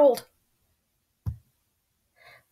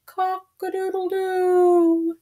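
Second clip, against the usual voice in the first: rooster crow; 10 semitones higher, 3 dB quieter than usual. Acted. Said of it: "He crowed".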